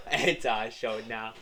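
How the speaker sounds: "It's our show now" through a laugh; laughing repeat. Shown as a demonstration.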